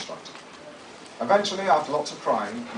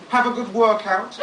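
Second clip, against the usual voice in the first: suggestive innuendo; 6 semitones higher, 5 dB louder, slower than usual. Retold or imitated. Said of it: "slotting my right forefinger in and out".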